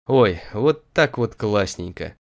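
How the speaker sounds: slow, blissful sigh of comfort; contented. Acted. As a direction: savour it, lazily pleased. Сытый поросёнок блаженствует в повозке. (блаженно, неторопливо)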